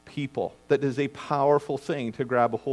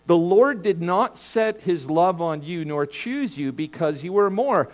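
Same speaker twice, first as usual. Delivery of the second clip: slow scripture reading; slower than usual. Shown as a demonstration. Quoting Deuteronomy slowly, deliberately.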